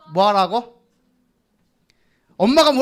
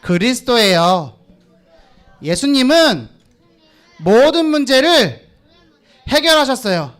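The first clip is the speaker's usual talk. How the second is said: put-on slow and loud so the children can copy it; slow repeat-after-me line; 3 dB louder, slower than usual. Shown as a demonstration. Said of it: "따라해봅시다". (따라 하도록 천천히 또박또박)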